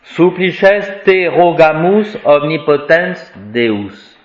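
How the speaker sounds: measured solemn recitation; slow Latin reading. Shown as a demonstration. Teacher rereads the prayer opening for the class, slow and careful. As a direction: read the Latin slowly and carefully. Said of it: "On va s'arrêter à Deus".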